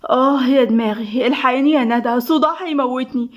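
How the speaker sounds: worn-out morning groan, lightly acted; mildly drained, achy whine; exhausted. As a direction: complain wearily about a splitting headache. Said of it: "دموع بإرهاق".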